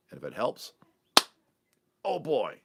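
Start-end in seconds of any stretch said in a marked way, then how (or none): 2.0-2.5 surprised. Real, not acted. Reacting mid sign-off.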